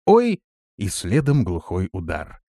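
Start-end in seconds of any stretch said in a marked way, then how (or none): 0.1-0.4 короткий высокий вскрик; вскрикнуть от удара. A narrator's reading. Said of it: "раздался крик". (вскрикнув)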